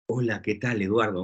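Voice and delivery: low, smooth romantic radio voice; lightly voiced romantic radio announcer; romantic radio host. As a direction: croon it like a late-night love-song DJ. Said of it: "es como de locutor de radio romántica".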